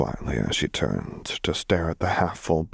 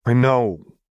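higher, louder, cutting in; snapping; 5 semitones higher, 6 dB louder than usual. A narrator's reading. Vi cutting Caitlin off, snapping. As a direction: snap it back impatiently. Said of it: "Vi snapped".

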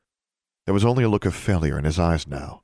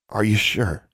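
ordinary delivery

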